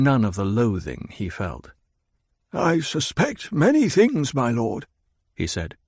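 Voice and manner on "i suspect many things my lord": put-on wary old spymaster speaking up; careful, measured reply to a suspicious lord; Hawat, guarded. Hawat answers the Baron, guarded and wary.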